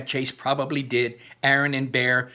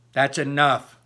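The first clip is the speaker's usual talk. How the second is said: firm cutoff; 5 dB louder than usual. Acted. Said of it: "Mister Leo cuts me off".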